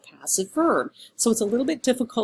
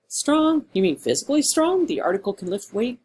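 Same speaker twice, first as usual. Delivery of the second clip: mock incredulous; 4 semitones higher than usual. Teacher mocks student's word choice.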